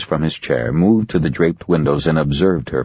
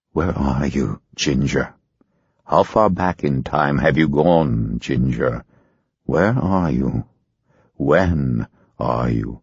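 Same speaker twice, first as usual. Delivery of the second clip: gentle questioning; 3 semitones lower than usual. Acted. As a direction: coax the answer out gently. Hypnotist asks gently.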